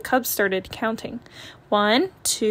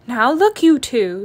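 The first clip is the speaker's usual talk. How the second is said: stern mother; 6 dB louder, slower than usual. Acted. Mama scolds complaining cubs.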